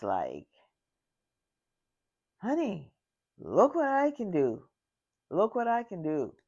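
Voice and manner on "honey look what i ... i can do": a touch of a giddy grandma, higher; playful, higher bragging grandma voice; excited grandma. Retold or imitated. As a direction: show off eagerly like a proud grandma. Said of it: "She was very excited".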